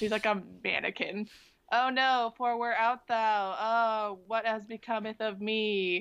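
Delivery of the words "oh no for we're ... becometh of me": mock stiff, wooden line delivery. Mocking an actress's stiff acting: imitating wooden acting. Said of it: "her acting is straight up like a fucking wooden doll".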